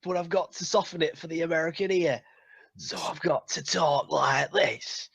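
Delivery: mock Yorkshire actor, softened for Americans; fake Yorkshire accent. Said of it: "fake Yorkshire accents".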